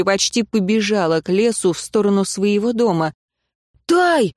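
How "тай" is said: shout. Acted. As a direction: shout her name as she runs off. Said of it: "крикнул Фабиан Стиу".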